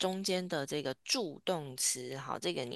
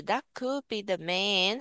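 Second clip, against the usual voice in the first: could said louder and rising, rest light; stress on could; 5 semitones higher, 5 dB louder, slower than usual. Shown as a demonstration. Teacher modelling the stressed auxiliary, could stressed. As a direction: punch the word could. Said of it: "他把这个could念得比较大声".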